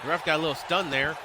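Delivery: lively ringside commentary, calling each move; energetic live commentary of a wrestling match; play-by-play. Acted. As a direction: call the match like a wrestling announcer. Streamer calls wrestling match play-by-play.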